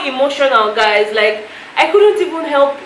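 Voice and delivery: embarrassed laugh at her own tears. Real, not acted. Vlogger confessing to viewers she cried, laughing.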